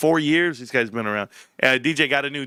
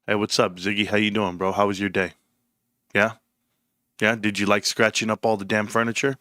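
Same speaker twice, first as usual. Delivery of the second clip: straight voice; 5 semitones lower than usual. Shown as a demonstration. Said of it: "if you had a straight voice".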